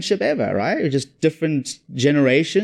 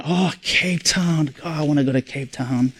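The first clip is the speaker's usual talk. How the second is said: mock dreamy admiration. People hearing he is from Cape Town, imitated wistful admiration. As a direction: imitate a wowed admirer, drawing out the first words.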